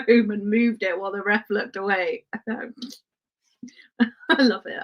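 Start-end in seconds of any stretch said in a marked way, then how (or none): 2.5-4.8 whisper. Real, not acted. Gleeful aside about cheeky trick.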